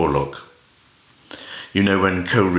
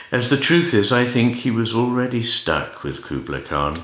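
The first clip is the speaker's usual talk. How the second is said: poetry recital; 2 semitones higher than usual. Acted. Reader performing a poem by Stevie Smith, lilting recital. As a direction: read the verse aloud with big rises and falls.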